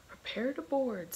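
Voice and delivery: high, loud battle order; rally the crew to board; pirate captain shouting to his crew, high and excited. A narrator's reading. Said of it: "Stash shouted, his excitement building".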